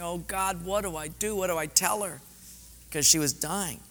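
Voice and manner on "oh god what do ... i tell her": higher-pitched, worried appeal to God; anxious retold plea. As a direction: act out a quick, helpless prayer. Retells his anxious prayer while driving.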